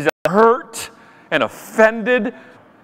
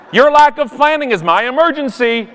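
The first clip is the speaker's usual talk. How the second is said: higher snide aside; sarcastic quip with a fake smile; passive-aggressive; 5 semitones higher than usual. Snarking at the late flyers, passive-aggressive. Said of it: "passive-aggressive politeness".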